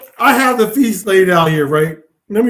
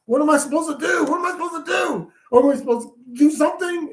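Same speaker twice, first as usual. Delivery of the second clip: imitated anxious questioning; 5 semitones higher, faster than usual. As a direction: mimic someone pestering for instructions in a raised pitch. Retelling someone anxiously asking.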